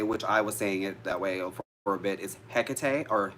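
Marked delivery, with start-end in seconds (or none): 2.5-3.1 Hecate stressed on the first syllable, ending in tay; mispronunciation of Hecate. Shown as a demonstration. Witch showing followers a way she used to say it, mispronunciation. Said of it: "The one incorrect way".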